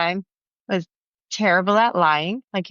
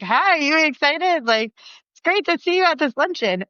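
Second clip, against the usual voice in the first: fake casual greeting; 9 semitones higher than usual. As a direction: act like you know nothing, and fail. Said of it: "they're starting to be terrible at lying".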